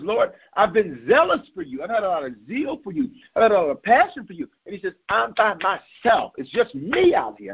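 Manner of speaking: high-pitched pleading to God; imitating an aggrieved prophet, pitched high; acted complaint.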